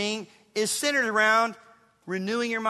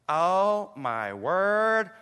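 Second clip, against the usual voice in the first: drawn-out awestruck "oh, my word"; mock amazement; much slower than usual. Preacher acting out a thrilling morning reading, mock awe. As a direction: act bowled over, savoring each word.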